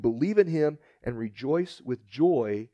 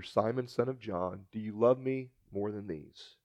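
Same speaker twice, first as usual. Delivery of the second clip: soft, quiet, gentle asking; tender question; 4 semitones lower, 9 dB quieter than usual. Retold or imitated. Jesus quietly asking Peter on a walk, tender and soft. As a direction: ask him gently, close and low.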